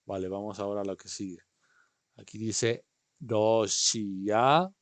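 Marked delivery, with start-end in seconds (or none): 3.2-4.7 slow model word. Shown as a demonstration. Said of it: "Repiten ahí".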